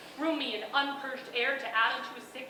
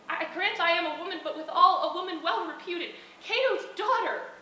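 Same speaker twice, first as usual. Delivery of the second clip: laughing through the line, a touch louder; 4 dB louder than usual. Acted. Portia to Brutus with a proud laugh, laughing. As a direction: let a laugh ride the words. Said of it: "repeated line, second take laughing".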